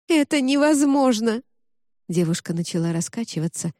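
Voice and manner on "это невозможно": high, loud despairing cry. Acted. Zoya cries out against the voice, high despairing shout. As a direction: protest against the impossible.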